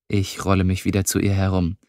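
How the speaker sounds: ordinary delivery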